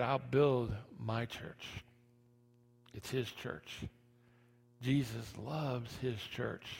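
soft, slow tender preaching. Acted. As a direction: speak it gently and slowly. Soft quoted scripture.

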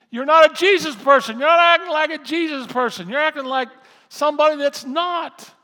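loud, high, insistent preacher's shout; full-force preaching. Acted. Preacher paraphrasing scripture to the congregation, shouted rebuke. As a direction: drive each phrase home at full volume.

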